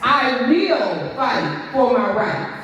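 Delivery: slow, deliberate declaration. Shown as a demonstration. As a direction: declare each word slowly. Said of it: "And you're gonna repeat after me".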